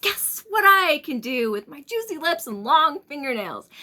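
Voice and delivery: a daughter springing from the dark, teasing; farmer's daughter voice. Acted. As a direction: leap out at him with a put-on teasing voice. Daughter jumps out again.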